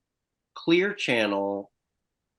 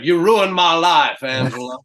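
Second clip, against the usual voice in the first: put-on Louisiana accent; 5 semitones higher, 9 dB louder than usual. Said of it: "my Louisiana dialect".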